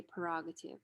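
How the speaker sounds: "prerogative" said as per-ogative, first R left out; first R dropped. Shown as a demonstration. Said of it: "The first R is deleted".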